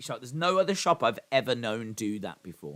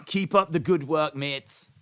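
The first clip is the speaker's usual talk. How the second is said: higher, louder attempted Scottish accent; Ali McCoist; 4 semitones higher, 5 dB louder, slower than usual. Imitating Ali cheering on the player, attempted Scottish accent. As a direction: put on a Scottish accent to encourage. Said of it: "That was a Scottish accent".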